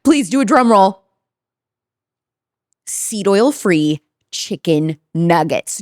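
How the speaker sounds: upbeat sponsor ad read. Acted. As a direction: sell it like a podcast ad. Host reads sponsored ad.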